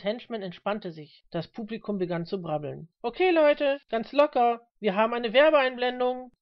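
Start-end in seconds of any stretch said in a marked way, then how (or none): 3.0-6.3 loud, raised stage-manager call. A narrator's reading. Floor manager announcing a break to the crowd, calling loudly. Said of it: "rief der Aufnahmeleiter".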